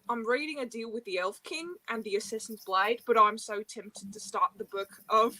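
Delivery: reading aloud with an Australian accent; attempted Australian accent. Shown as a demonstration. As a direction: have a go at sounding Australian. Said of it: "I cannot do Australian. Wait, should I try?".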